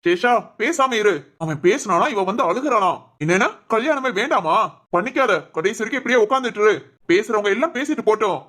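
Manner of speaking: angry. Acted. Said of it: "நீயும் கோபமா பேசாத".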